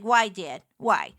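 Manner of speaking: building to high, loud, fast wailing complaint; hammed-up child's despairing wail; exasperated whine. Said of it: "And I was just like".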